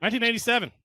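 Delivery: cowboy voice. Real, not acted. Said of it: "I don't know why I sound like a cowboy there".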